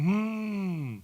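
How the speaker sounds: a thoughtful, knowing hum; knowing hmm. Shown as a demonstration. Speaker showing the audience how to sound smart. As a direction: sound like you know it. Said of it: "You should be going".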